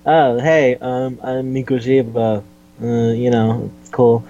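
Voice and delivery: imitating an awkward, halting greeting; gawky introduction. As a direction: fumble through a would-be casual hello. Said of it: "he feels kinda gawky".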